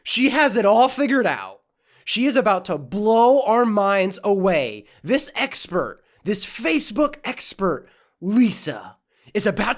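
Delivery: oversell it like a trailer; mock hype. Mocking a woman's video, hammed-up hype.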